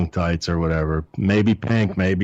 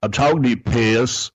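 a light teasing imitation of Bobby, a touch higher; imitating Bobby; 3 semitones higher, slower than usual. Quoting Bobby teasing the young driver as Piss Boy, lightly mimicked. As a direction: tease the kid the way Bobby did. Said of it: "He loved to just say".

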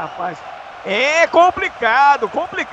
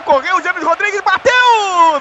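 building excitement; 3 semitones higher, slower than usual. Real, not acted. Penalty taken, rising call.

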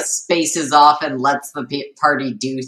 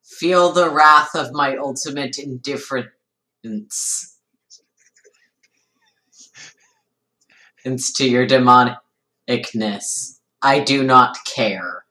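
deadpan indifference; 3 semitones lower than usual. Acted. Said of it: "I am trying to say this internally".

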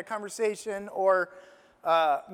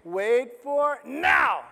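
slow God's voice; 4 semitones higher, much slower than usual. Retold or imitated. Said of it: "God is saying".

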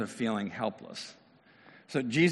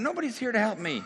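despairing cry; 10 semitones higher, faster than usual. Acted. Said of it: "what we want to say to God".

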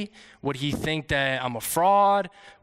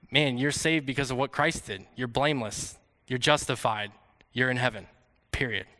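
softer, lower voice, calm and assured; gentle reassurance; 4 semitones lower, 4 dB quieter than usual. Retold or imitated. God smiling as he tells a believer they are saved, gently reassuring. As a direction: reassure them like a smiling father.

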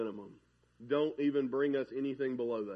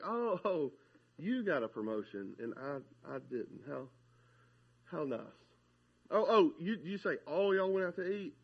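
sarcastic fake congratulations; 3 semitones lower, 4 dB quieter than usual. Mocking jealous friend's fake congratulations.

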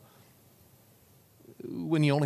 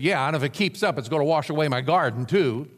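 a louder gloomy neighbour grumbling; grumbling pessimist; 4 dB louder, faster than usual. Acted. Pessimist neighbour griping about the rain, grumbling louder. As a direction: complain over the fence, a touch louder. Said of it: "the pessimist said".

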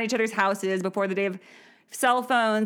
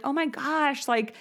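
excited recognition; 6 semitones higher than usual. Retold or imitated. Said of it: "and be like".

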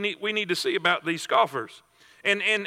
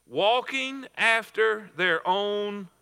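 slow group reading; much slower than usual. Shown as a demonstration. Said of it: "Read this with me".

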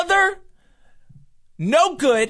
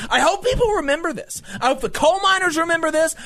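higher, rising angry tirade, fast at the end; angry rant; 5 semitones higher than usual. Real, not acted. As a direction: let the anger build and spill out. Angry rant against a politician.

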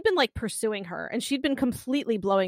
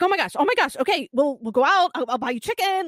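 higher, flustered placating; mock panic; 4 semitones higher, 3 dB louder than usual. Co-host acting out a woman soothing her crying date, panicking. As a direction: imitate someone scrambling to calm a crier.

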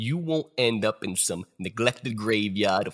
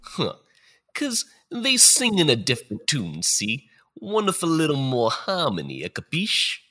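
tough mobster spirit, cocky; gangster ghost voice. Acted. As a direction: play a wiseguy ghost talking down. Gangster-style ghost of future.

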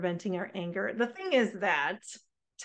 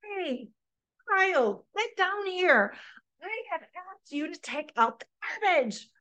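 higher, half-hearted frustrated call; mock yell; 7 semitones higher than usual. Frustrated parent calling child down about garbage, mock yell. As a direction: call the kid down, fed up. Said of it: "And so then maybe we yell".

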